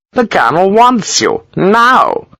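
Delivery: high, insistent officer's demand; impatient Gibbons. A narrator's reading. Gibbons pressing Sharp to obey, high and insistent. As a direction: push the order on the now.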